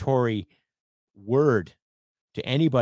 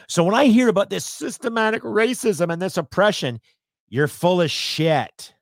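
scornful outburst; 8 semitones higher, 5 dB louder than usual. Real, not acted. Denouncing claims of systemic racism.

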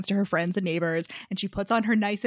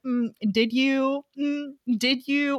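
taunting; 3 semitones higher, 3 dB quieter, slower than usual. Acted. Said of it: "And Addie's like".

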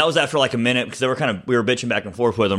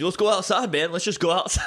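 higher eager urging; mock eager challenge; 7 semitones higher than usual. Russell urging everyone outside, higher mock eagerness. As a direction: keep pushing to go outside. Imitating Russell egging a fight.

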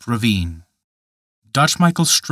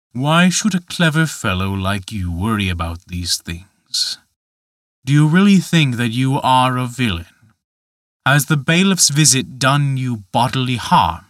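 a lightly voiced giant gently mocking; understated tempter, reasoning with the boy; Dutch Michael, coaxing. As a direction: coax him like a sly tempter.

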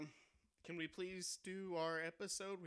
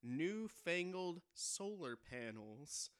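deadpan news delivery; late night news read. Acted. Reads joke headline.

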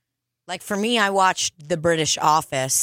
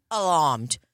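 Australian accent; 3 semitones lower than usual. Shown as a demonstration. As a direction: say "alarmed" like an Australian. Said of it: "Australian accent".

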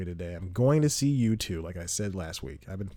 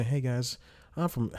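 higher, lightly played Southern accent; put-on Southern accent; 4 semitones higher than usual. Rehearsing a line to charm toward better seats, put-on Southern accent. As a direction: start a pretend Southern greeting, breaking off. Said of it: "I throw an accent".

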